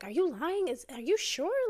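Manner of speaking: mock stunned aunt questioning the news; shocked disbelief. Aunt hearing about the affair on the phone, imitating shocked disbelief.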